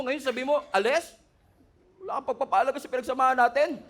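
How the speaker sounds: lightly voiced devil, laughing and wheedling; a hint of a hurt, mocking devil; playful devil voice. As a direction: play a clingy devil pleading. Preacher voices the devil replying.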